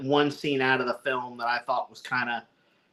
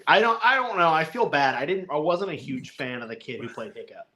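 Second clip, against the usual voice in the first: ordinary talk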